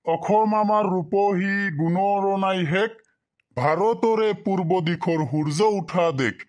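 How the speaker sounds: sing-song classroom poem reading; poem recitation. Shown as a demonstration. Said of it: "আমি আরো একবার কয়ে দিতেছি".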